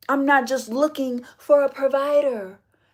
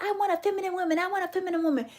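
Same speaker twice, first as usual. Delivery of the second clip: mock man's voice, higher; mocking men; 7 semitones higher, much faster than usual. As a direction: parrot a man's demand. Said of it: "This is why you like".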